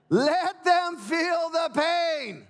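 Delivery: high drawn-out shout. Shown as a demonstration. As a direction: cry it out slowly to the crowd. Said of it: "repeated louder".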